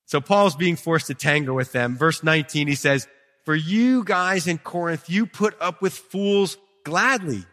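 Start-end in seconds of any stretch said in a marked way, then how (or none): 3.5-7.5 sarcastic. Retold or imitated. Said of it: "Notice the sarcasm there?".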